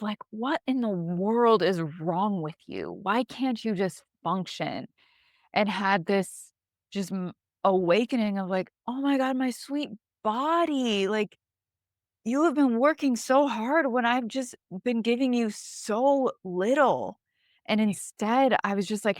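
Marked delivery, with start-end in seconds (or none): 0.3-4.9 slow, disgusted scolding of her own body. Retold or imitated. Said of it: "disgust of". 8.9-17.2 slow, tender apology to her own body. Retold or imitated. Tender realisation toward her body.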